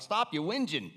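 put-on amateur Northwest English accent; mock scolding in an English accent; imitated English accent. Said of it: "My apologies for the accent".

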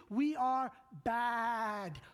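slow, loud shout with every word hit hard; preached shout. Acted. Preacher shouting the congregation's failing at them. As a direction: hammer it down like a verdict.

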